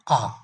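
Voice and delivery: आ sounded as an open ah; vowel demo. Shown as a demonstration. Teacher answering own question by sounding आ. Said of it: "किस का sound देता है?".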